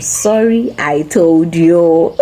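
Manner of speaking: slow, smug I-told-you-so; told-you-so sorry. Shown as a demonstration. Parent scolding a hurt child, smug and reproachful. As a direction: rub it in a little. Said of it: "is different from".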